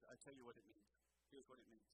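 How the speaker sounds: a hint of the guide's voice; Israeli guide impression. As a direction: gently mimic the guide explaining. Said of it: "that's exactly how he sounds".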